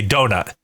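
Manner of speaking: "donut" with the T left unreleased; clipped final T. Shown as a demonstration. Explaining East Coast speech, "donut" stopped before the T. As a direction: stop short on the end of "donut". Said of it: "You just stop in the middle of the U".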